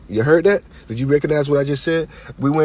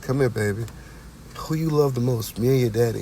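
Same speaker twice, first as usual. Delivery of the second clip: softer, sweet coaxing mother voice; nice and sweet; 4 dB quieter than usual. Retold or imitated. Son imitates his mother sweet-talking him, softer and coaxing. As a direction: coax the child gently, like a sweet mom. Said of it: "she would be all nice and sweet".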